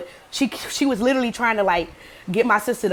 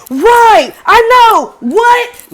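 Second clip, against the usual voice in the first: high, loud fake bafflement; over-eager, squealed agreement; mock agreement; 12 semitones higher, 9 dB louder, much slower than usual. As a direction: mimic someone playing innocent. Girl falsely echoing sister's confusion.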